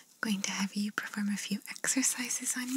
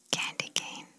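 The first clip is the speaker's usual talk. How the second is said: breathy whisper right into the ear. Shown as a demonstration. Examiner testing the patient's hearing, whispered into the ear. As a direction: whisper the words close into one ear. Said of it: "I'm gonna whisper a word in your ear".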